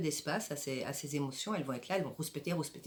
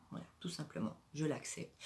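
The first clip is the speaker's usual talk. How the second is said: softer, half-whispered letting go; quiet acceptance; 6 dB quieter than usual. Shown as a demonstration. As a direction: breathe it out, simply accepting. Demo of accepting sadness. (à mi-voix, presque chuchoté, simple acceptation)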